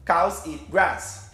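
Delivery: "Cows eat grass" slowly, one beat per word; três sílabas marcadas. Shown as a demonstration. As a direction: give "Cows", "eat" and "grass" each a slow, separate beat. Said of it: "tem três sílabas". ("Cows eat grass" devagar, em três sílabas separadas)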